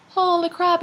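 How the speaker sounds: imitating own surprise, lightly; mock shock. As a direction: retell the price shock with a jump in pitch. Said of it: "And I was like".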